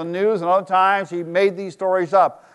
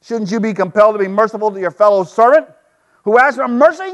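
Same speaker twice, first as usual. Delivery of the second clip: angry king; 3 semitones higher, 3 dB louder than usual. Acted. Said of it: "The king summoned the man and said".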